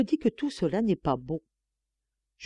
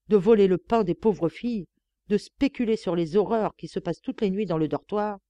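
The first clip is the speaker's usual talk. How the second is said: defiant. Acted. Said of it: "dans une attitude de défi".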